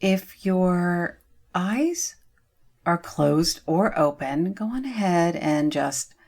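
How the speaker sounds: gently guiding with long pauses; guided meditation. Real, not acted. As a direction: lead them through it step by step, unhurried. Leads eye relaxation in meditation.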